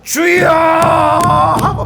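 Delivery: high shouted cry; shouting Lord. Retold or imitated. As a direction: cry out to the rafters. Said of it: "소리를 지르고".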